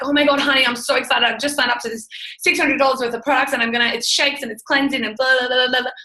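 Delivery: breathless, fast, bubbly gush of news; gushing excitement. Retold or imitated. Wife gushing to her husband about her purchase, excited and fast. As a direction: spill it all out, thrilled. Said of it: "talking like this".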